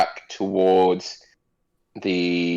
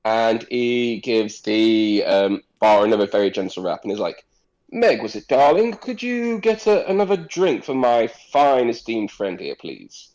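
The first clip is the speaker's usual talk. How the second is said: smooth noble; 2 semitones higher than usual. Acted. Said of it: "Salar says".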